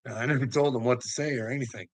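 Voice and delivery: ordinary talk, nothing marked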